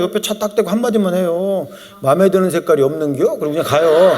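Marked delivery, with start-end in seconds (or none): 2.0-3.2 lower-pitched Chungcheong drollery; understated needling in light Chungcheong dialect. Retold or imitated. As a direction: imitate a mild-mannered Chungcheong driver, low voice. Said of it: "충청도 절대 안 그래요".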